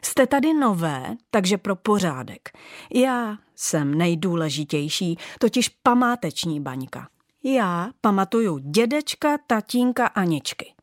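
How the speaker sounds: a lightly voiced haughty old ornament, lecturing; bossy old bauble. Old bauble lecturing the new ones, haughty. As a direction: lay down the law to the newcomers.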